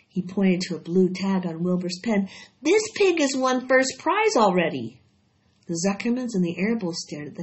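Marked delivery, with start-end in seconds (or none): 2.6-5.0 higher, louder with wonder; excited boy. A narrator's reading. Avery showing the family the blue tag, excited. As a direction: announce the news breathlessly. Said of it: "cried Avery".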